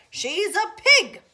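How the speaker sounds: very loud angry yell; old woman yelling a pig off her yard; furious shout. Acted. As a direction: bellow it at the pig. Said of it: "shouted Eugenia".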